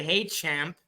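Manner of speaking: mock polite ref. Ref mocking what he'd say to a losing kid, rising mock plea. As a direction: ask sweetly, then push up on "back up". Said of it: "what must I say?".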